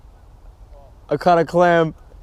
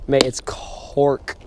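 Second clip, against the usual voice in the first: slow whispered Aussie "Mate, it's cork"; mock Aussie accent; 3 semitones lower, much slower than usual. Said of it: "The way you say cork".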